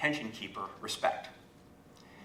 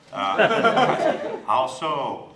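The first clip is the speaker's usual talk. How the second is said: gods of fiction, laughing; 3 semitones higher, 11 dB louder, much slower than usual. Retold or imitated. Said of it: "what they say is".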